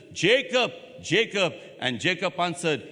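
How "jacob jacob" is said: raised call of the name; God calling out. Acted. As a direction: call him from far off.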